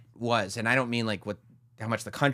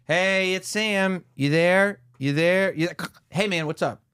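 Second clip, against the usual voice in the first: mock caller; 6 semitones higher, slower than usual. Answering machine caller voice.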